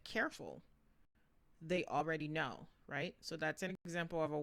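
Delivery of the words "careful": higher, short warning; just the one word. Shown as a demonstration. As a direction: parent warning a child. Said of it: "You just said".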